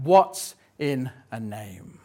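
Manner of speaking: slow, weighty delivery of What's in a name; quoted famous line. Acted. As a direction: savour the famous question. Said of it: "she says that now infamous line".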